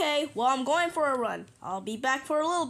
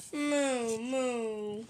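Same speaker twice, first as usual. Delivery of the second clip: drooping, softer sad moos; 4 dB quieter than usual. Pretend. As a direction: moo like a mopey toy cow. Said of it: "Why you look so sad".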